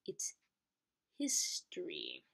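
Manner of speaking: breathy whisper of history. Acted. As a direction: whisper it like a secret. Whispered dramatic ending.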